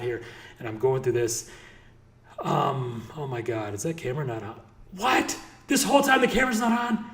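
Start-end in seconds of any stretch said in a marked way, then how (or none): 5.0-7.0 shocked disbelief. Real, not acted. Learns camera was off.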